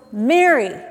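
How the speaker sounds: voiced call to someone; calling her name. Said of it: "He calls her name".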